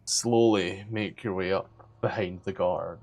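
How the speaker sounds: understated storyteller's suspense; game master narration. Acted. Game master sets scene.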